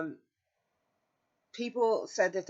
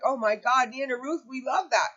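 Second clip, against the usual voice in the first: imitating nurses gushing, pitched much higher; delighted nurses; 7 semitones higher, 4 dB louder than usual. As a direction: gush over "Nana Ruth" in mock delight. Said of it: "And they're like".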